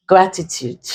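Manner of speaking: GRATITUDE with the stress on GRA; first-syllable stress. Shown as a demonstration. Teacher showing the stress rule, GRATITUDE stressed on GRA. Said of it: "we stress the first syllable".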